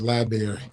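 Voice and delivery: library as LIE-berry, no BR; Chicago pronunciation. Real, not acted. Cohost from Chicago defending his way, library as LIE-berry. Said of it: "I'm from Chicago".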